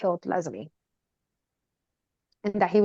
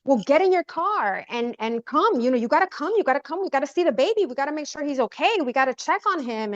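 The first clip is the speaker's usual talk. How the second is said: retold yelling; 5 semitones higher than usual. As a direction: press them insistently, voice raised in pitch. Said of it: "am yelling and I'm like".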